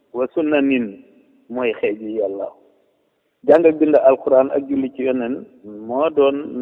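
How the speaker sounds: measured verse reading with falling refrain; poem recitation. Real, not acted. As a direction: recite praise verses line by line, dropping on the refrain. Recites own praise poem.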